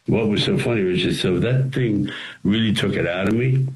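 ordinary delivery

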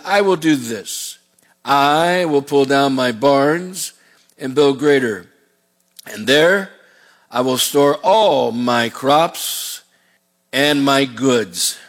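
lightly voiced rich farmer, very slow and drawn out; greedy rich man. Rich man planning his barns, slow smug musing. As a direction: savour each plan like a smug landowner.

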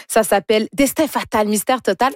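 "Destin fatal, mystère total" announced with drama; mock-dramatic title intonation. Shown as a demonstration. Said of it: "Je suis pas capable de le dire autrement".

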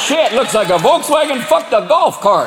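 high, slow Southern drawl; Southern yokel accent. Acted. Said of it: "especially in the South".

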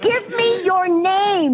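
real exasperation, drawn out; angry demand. Real, not acted. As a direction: space out each word, fed up. Angry customer demands agent's name.

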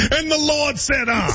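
high, mock pulpit cry ending on "uh"; preacher imitation. Host teasing co-host's cheer, preacher imitation. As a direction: preach it out, punctuated with a gasped "uh". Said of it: "like a black preacher".

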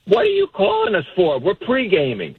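high-pitched indignant opening, falling away; mother's mock annoyance. Son retelling mother's reaction to his call, mock annoyed. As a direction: act out mom brushing off a call.

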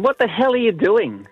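lightly acted demand for an explanation; indignant demand. Wife catches husband with fly swatter, mildly indignant.

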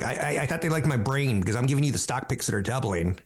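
a touch of heated indignation; mildly huffy retort to the boss; lightly voiced anger. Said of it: "That's my anger voice".

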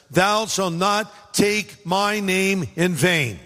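slow, grave voice of God; slow, weighty scripture reading; solemn commandment. Retold or imitated. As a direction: intone it slowly like a decree.

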